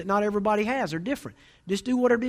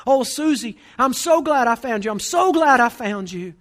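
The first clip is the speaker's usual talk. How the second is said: loud, raised voice acting out a joyful reunion; relieved mother; 4 semitones higher, 7 dB louder, slower than usual. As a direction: cry out with relief at finding your child, imitated. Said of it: "the mom was crying".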